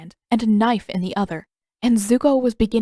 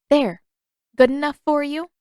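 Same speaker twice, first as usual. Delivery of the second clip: a touch of proud challenge, louder; mild triumph; 7 semitones higher, 5 dB louder than usual. Acted. Katara holds out the letter to Zuko, mildly triumphant. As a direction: show off the finished seal.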